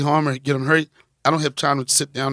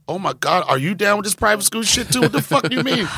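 comic indignant questioning; exasperated disbelief; 5 semitones higher than usual. Retold or imitated. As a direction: pitch climbing into mock outrage. Acts his disbelief at child's mother.

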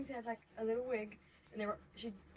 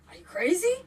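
mock shocked question; 4 semitones higher, 15 dB louder than usual. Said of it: "and he's like".

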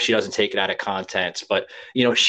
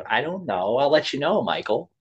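put-on Jersey Italian accent; 5 semitones higher than usual. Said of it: "that's how she talked, that Italian accent".

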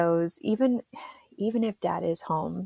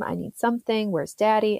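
a little higher, a hint of a pleading child; lightly voiced whiny kid; 4 semitones higher than usual. Son asking mom mid-session, mild childish whine. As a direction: whine it like a six-year-old.

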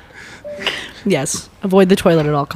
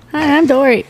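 Dory impression; 8 semitones higher than usual. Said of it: "do a good Dory impression".

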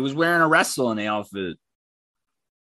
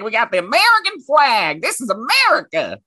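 high, loud mocking patriot voice; mock flag-waver; 8 semitones higher, 4 dB louder than usual. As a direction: parody a worked-up flag-waving American. Mocks closed-minded flag-waving Americans.

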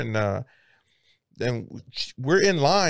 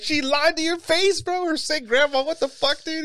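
mock teasing. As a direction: rub it in like a mocking buddy. Friends dogging Alex.

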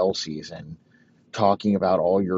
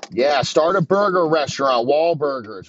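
higher and louder, pumped-up pitch; hyped Wahlberg guys; 6 semitones higher, 7 dB louder than usual. Pretend. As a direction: sell it like an overexcited bro. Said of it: "they're like".

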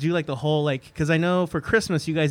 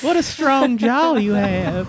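put-on old Hollywood starlet; 5 semitones higher, slower than usual. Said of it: "Humphrey Bogart".

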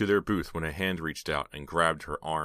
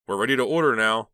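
loud call from a back booth; 5 semitones higher, 9 dB louder than usual. A narrator's reading. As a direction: call across the diner for service. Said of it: "the man in the back booth called".

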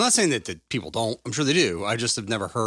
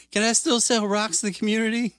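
mock dealer voice; 11 semitones higher, 3 dB louder than usual. Joking dealer voice.

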